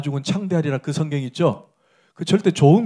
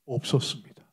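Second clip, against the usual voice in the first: humbled Job; 6 semitones lower, 7 dB quieter than usual. Retold or imitated. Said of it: "뭐라 그래요, 욥이?".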